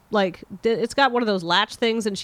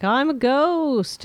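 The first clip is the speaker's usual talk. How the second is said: slow ghost voice; 4 semitones higher, much slower than usual. Retold or imitated. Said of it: "And she's like".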